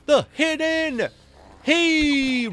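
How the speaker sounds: high, loud, drawn-out hype; thrilled loot reaction; excited shout. Real, not acted. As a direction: announce the drop with big excitement. Reacting to a rare drop.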